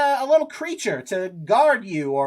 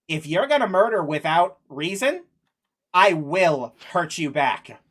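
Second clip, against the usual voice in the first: gruff warrior voice; 5 semitones lower than usual. Acted. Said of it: "That's Boga's voice? ... wrong voice".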